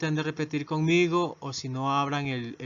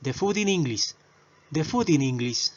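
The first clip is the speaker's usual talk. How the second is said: the food in English run together at normal speed; faster practice. Shown as a demonstration. Teacher showing the faster version, quick and linked. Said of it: "para hablar más rápido".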